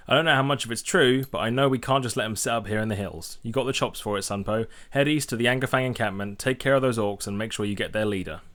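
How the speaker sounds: lightly voiced gruff prospector; quest giver voice. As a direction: read it like a friendly dwarf quest giver. Reads quest text in character.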